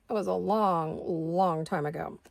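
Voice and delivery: slow speech through hiccups. Real, not acted. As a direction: hiccup between the words. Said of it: "I have the hiccups".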